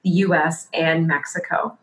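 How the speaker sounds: smooth scripted host read over music; podcast intro read. Acted. Host welcoming listeners, polished scripted intro read.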